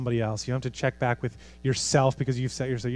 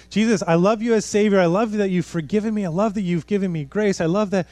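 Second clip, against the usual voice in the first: higher, louder gushing praise; voicing a believer's prayer; 5 semitones higher, 4 dB louder than usual. Preacher imitating a believer gushing praise to Jesus. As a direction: gush thanks to Jesus. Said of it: "where you said".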